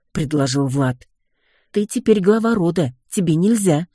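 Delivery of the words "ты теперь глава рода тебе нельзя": higher, sly mocking jab; snide teasing. Wife teases her husband the new clan head, snide. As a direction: needle him with a grin. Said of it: "ехидно заметила я".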